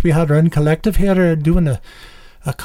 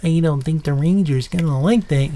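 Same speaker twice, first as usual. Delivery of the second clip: Yogi Bear. Retold or imitated. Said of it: "Yogi Bear?".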